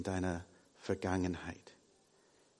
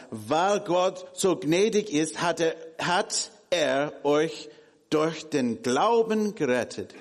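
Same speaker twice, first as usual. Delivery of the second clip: emphatic scripture reading; 5 semitones higher, 4 dB louder than usual. Acted. Reading Ephesians aloud emphatically.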